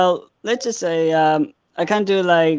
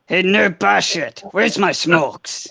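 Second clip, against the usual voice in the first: lightly voiced army sergeant; hint of a tough sergeant impression; amateur take on a game soldier; Sergeant Frank Woods. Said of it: "can you do him? As, as, as Frank, as Frank, Sergeant Frank Woods".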